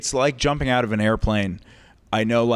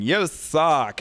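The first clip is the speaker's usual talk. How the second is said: lightly mimicked flamboyant heckler, higher pitched; 5 semitones higher than usual. Drunk audience member heckling every comic, flamboyant heckler. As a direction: camp mock jeer, drawn from a drunk regular. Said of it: "Flamboyantly gay".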